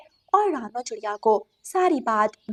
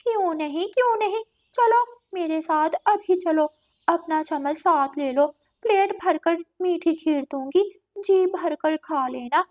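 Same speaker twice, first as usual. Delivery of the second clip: lightly voiced eager cat host; a hint of an over-willing cat; inviting cat; 6 semitones higher than usual. Cat invites crow to eat kheer, coaxing.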